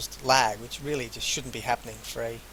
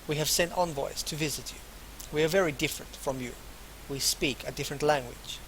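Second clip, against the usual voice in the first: bad put-on foreign accent; halting foreign accent, roughly faked; Masha; 2 semitones higher, 4 dB louder than usual. Masha explains her people to a visitor, bad foreign accent. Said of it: "keep doing that shitty accent".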